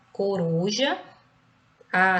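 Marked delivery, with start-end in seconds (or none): 0.1-1.0 "coruja" with weight on RU, rising at the end; stress on middle syllable. Shown as a demonstration. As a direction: lean on "ru" in "coruja", ending upward. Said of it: "ela é a penúltima".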